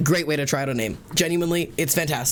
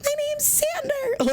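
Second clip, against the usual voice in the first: pitched way up, slow and drawn out; mock her old high voice, much higher and slower; slower than usual. Imitating her old high voice to the barista. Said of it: "very, very high voice".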